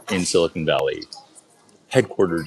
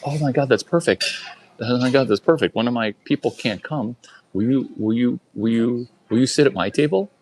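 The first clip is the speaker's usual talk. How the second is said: excited invite; 5 semitones higher than usual. Retold or imitated. Author eagerly invites.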